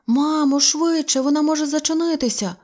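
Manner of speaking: put-on a small boy hurrying his mother; eager little boy.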